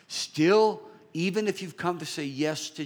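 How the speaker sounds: a high, loud cry of Still; preaching shout. Acted. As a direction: belt out Still to wake them up. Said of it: "preaching climax".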